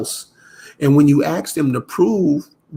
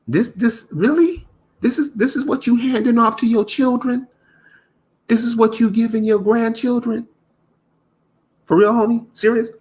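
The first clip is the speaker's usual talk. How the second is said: real disbelief; 7 semitones higher than usual. Real, not acted. Asking the hosts, in high, amused disbelief. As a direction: lay on the amazed disbelief.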